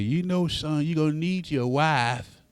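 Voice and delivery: soft, gentle motherly hush; mother whispering to her son, softly; whispered advice. Retold or imitated. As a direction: lean in and murmur wisely. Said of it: "always whispered in my ear".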